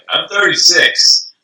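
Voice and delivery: high, loud, drawn-out objection; mock protest. Answering the spring breakers' club invitation, loud mock protest. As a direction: protest loudly, stretching it out.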